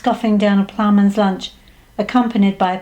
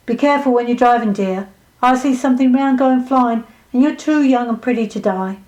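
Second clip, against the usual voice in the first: lightly voiced psychic cautioning a client; fortune-teller warning; 3 semitones higher than usual. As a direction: warn her as the fortune-teller, with a "dear".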